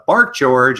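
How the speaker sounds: lightly voiced mama dog, firm; a hint of a mother scolding her puppy. Mama dog telling her puppy to bark, lightly voiced. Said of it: "a mama dog talking to her puppy".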